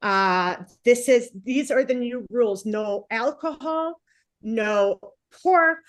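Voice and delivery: Prophet laying down rules. Retold or imitated. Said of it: "was just like".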